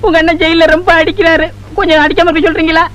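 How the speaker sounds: whiny, tearful plea in a strange voice; mock crying. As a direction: whimper it like a pitiful prisoner. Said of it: "ஏங்க அழுவுறீங்க?".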